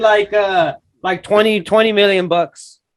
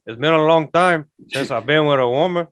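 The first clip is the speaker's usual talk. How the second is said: imitating Jon Voight; 4 semitones lower than usual. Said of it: "He goes".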